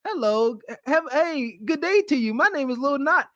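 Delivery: mock genteel lady introducing herself; feminine greeting. Shown as a demonstration. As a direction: play it prim and proper. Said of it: "as feminine as Lil Knot can be".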